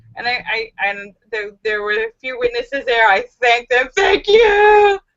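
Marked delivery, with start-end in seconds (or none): 3.9-4.9 put-on high, loud sobbing through the words. Retelling thanking the witnesses: imitating sobbing.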